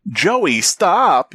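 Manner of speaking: high, sharp yell. A narrator's reading. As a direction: yell it to stop someone. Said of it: "yelled Doctor Bennett".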